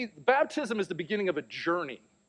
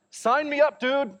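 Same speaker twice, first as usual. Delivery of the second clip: higher and louder, playful excitement; mock eager; 10 semitones higher, 5 dB louder, slower than usual. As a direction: jump in like an eager fan. Mock eager reaction to son's story.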